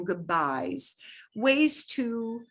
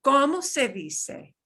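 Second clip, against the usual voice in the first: slow model phrasing; 4 semitones higher than usual. Shown as a demonstration. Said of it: "I'm gonna model some of these phrases".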